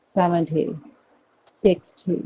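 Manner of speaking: American-style "thirty, सेवेंटी, सिक्सटी", T softened; American pronunciation. Shown as a demonstration. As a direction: demonstrate American "dee" endings. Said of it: "आप American अगर बोलोगे".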